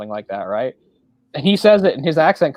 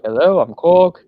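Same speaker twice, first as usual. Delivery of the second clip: laid-back New Zealander, polite and higher-pitched; easygoing impression of a gentle rock guy; Korg; 4 semitones higher, 5 dB louder than usual. Introducing himself to a gladiator, laid-back. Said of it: "He's just also laid back".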